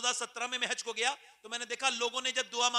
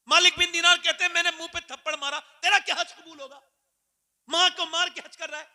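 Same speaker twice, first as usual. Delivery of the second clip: high, loud fiery sermon; impassioned preaching; 9 semitones higher, 11 dB louder than usual. Acted. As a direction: thunder it from the pulpit. Preaching at full force.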